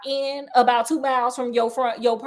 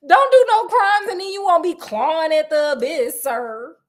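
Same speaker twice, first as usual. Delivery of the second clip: scolding; 4 semitones higher, 4 dB louder than usual. Real, not acted. Scolding the Duke, louder.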